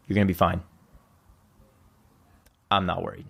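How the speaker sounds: steady, unhurried reassurance with long pauses; calm reassurance. Retold or imitated. Quoting the uncle at the bedside, calmly reassuring. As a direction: reassure simply, leaving long silences.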